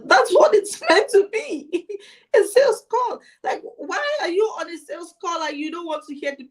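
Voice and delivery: high, loud disbelief breaking into laughter; incredulous laughing. Retold or imitated. Coach mocking a caller who hates salesy calls, laughing disbelief. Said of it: "And I'm like".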